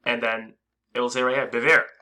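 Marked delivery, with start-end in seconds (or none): 1.5-1.9 Beware punched louder with a rise; Beware, loud and rising as a warning; stress on Beware. Shown as a demonstration. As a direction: hit the word Beware hard. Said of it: "this is how, uh, we increase emphasis".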